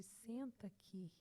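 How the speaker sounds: soft, slow and tender; gentle, soft invitation. Retold or imitated. God the Father inviting his daughter onto his lap, tender. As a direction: coax like a loving father. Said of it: "com uma voz suave".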